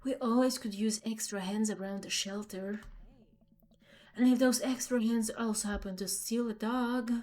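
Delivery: lightly voiced sly woman; Mary, slyly offering. Mary offers Amanda shelter visit, lightly put-on sly voice. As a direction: drop the offer casually, in a light character voice.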